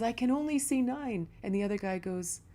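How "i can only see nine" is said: freaking out. Retold or imitated. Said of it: "the guy's freaking out".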